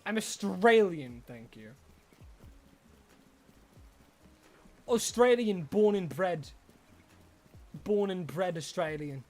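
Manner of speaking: a light put-on Australian accent. Streamer insisting to chat he's Australian, mock Aussie accent. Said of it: "Does my accent say as much?".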